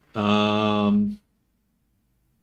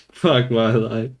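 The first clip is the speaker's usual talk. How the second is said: laughing, slow and louder; laughing despair; 4 dB louder, slower than usual. Real, not acted.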